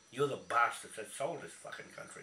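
loud, furious accusation; angry outburst. Real, not acted. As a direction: spit it at him in anger. Ranting accusation at Alfred.

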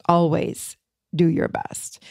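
slow, with a pause after "Always"; slow emphatic repeat. Real, not acted. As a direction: let "Always do your best" sink in, word by word. Repeats agreement slowly to sink in.

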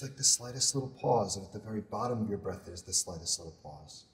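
soft, measured meditation voice with long pauses; guided meditation. Acted. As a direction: guide them gently through a body scan, unhurried. Leads a body scan meditation.

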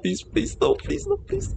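very high, panicked begging; terrified pleading. Real, not acted. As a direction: squeal of real terror. Caught by monster.

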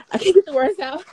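giggling through the words; laughing, can't get it out. Real, not acted. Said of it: "I'm gagging".

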